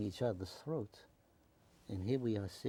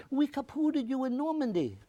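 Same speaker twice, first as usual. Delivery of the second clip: put-on much higher, louder teasing in a German accent; imitating a German veteran's boast, high and loud; 14 semitones higher, 5 dB louder than usual. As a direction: play the German veteran gloating in his accent. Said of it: "he said".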